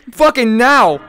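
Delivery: loud, forceful demand; urgent yell. Real, not acted. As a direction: shout it as an urgent order. Repeats it as a yell.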